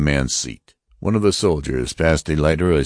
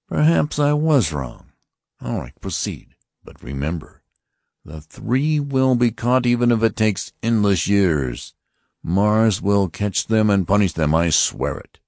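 high, stern voice of an alien officer; Martian officer; 6 semitones higher than usual. Acted. Martian officer warning the passengers, stern and high. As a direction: announce it like a cold interrogator.

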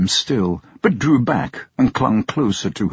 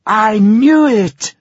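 higher, louder, slow triumphant cry; proud cry; 11 semitones higher, 7 dB louder, slower than usual. Acted. Blind daughter vindicated, proud loud cry. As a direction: crow it out with pride. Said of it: "cried Bertha proudly".

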